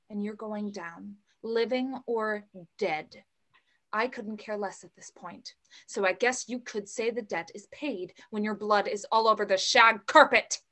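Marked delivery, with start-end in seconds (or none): 5.9-10.6 threatening. Acted. Mother threatens villain.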